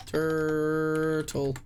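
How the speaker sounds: "Turtle" stretched long with a falling tune; a slow, sagging "Turtle"; drawn-out turtle. Shown as a demonstration. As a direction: draw out "Turtle" slowly as you type it. Typing guess, then drawn out.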